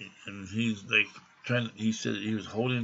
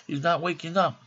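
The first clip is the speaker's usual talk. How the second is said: Greek friend pleading; 7 semitones higher, 4 dB louder than usual. Retold or imitated. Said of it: "And he goes".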